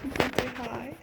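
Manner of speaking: high, sing-song coaxing. Real, not acted. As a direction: coax the dog sweetly. Coaxing dog to greet camera.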